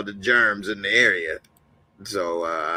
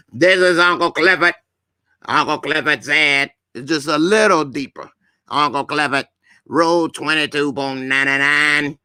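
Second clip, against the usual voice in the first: Uncle Clifford impression. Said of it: "if I do Uncle Clifford".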